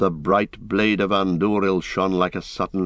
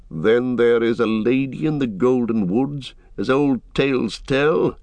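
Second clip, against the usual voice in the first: higher, distinct voice of a hardened horseman; wary rider; 5 semitones higher than usual. Acted. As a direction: question the strangers with wary wonder. Rider reacts with hardened eyes.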